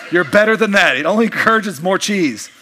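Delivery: teasing mock rebuke, laughing; mock scolding. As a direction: scold them for laughing, but grin through it. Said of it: "Don't laugh at that stuff".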